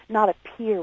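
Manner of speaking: "appear" given deliberate weight; stress on APPEAR. Real, not acted. Daughter clarifying her point, firm stress on "appear". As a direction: repeat it with emphasis on "appear". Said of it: "I really want to stress the word appear".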